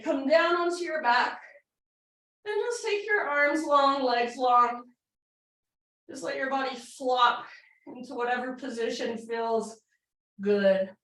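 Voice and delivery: talking while winded; breathless after the pose; out of breath. Real, not acted. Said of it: "I'm out of breath".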